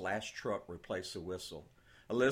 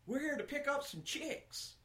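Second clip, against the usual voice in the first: put-on boy's voice. Boy Ben speaks.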